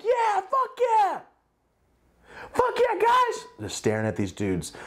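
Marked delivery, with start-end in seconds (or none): 0.0-3.5 hammed-up excited yeah to the fans; fake enthusiasm. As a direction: pump the fans up with exaggerated cheer. He answers the fans outwardly.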